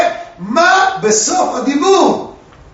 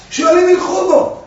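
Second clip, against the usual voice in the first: shouted question; 6 semitones higher than usual. Acted. Students demanding Rabbi Akiva explain, shouted. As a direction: call it out as the baffled students.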